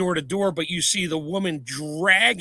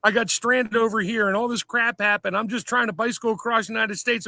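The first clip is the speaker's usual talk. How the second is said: hammed-up Scottish accent; 5 semitones higher than usual. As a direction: ham up a Scottish cyclist asking for help. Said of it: "thick ass Scottish accent".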